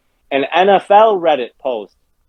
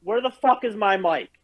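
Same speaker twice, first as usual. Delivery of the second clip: shrill furious yelling, higher pitch; raging; 5 semitones higher than usual. Real, not acted. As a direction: blow up at the game. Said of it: "Cactus is raging".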